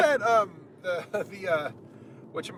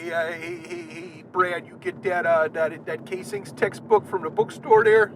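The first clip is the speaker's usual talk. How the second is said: put-on Midwestern accent; 2 semitones higher, 4 dB louder than usual. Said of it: "weird Midwestern accent".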